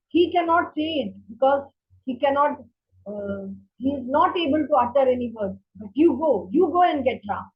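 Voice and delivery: loud insistent command, you go pushed hard; commanding order. Retold or imitated. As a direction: order the minister firmly. Queen ordering the minister.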